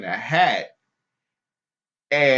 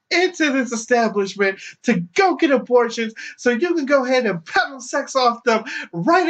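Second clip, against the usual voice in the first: shrieking accuser; 12 semitones higher than usual. Retold or imitated. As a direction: preach the charge at him. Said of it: "the protester accuses again".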